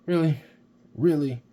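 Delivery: high, loud incredulous really; can't believe what the figure does; amazed disbelief. Real, not acted. Figure pose amazes reviewer.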